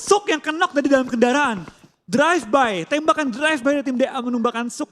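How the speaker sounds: excited call. Real, not acted. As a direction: ride the action. Caster calling a drive-by knock.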